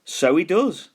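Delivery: high, agreeing little skeleton; a small skeleton nodding along. A narrator's reading. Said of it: "said the little skeleton".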